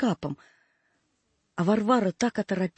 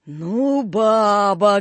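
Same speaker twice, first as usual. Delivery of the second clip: onlookers' remark; 3 dB louder, much slower than usual. A narrator's reading. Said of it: "говорили у ворот".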